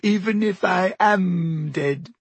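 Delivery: slow, high, weepy self-pity; hammed-up sobbing ghost, drawn out high; choked with tears. A narrator's reading. Myrtle insists the dead have feelings, choked with tears. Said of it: "a voice choked with tears".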